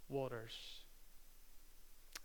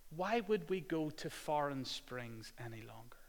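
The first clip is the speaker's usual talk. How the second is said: whisper; 6 dB quieter than usual. Acted. Rhetorical question, hushed.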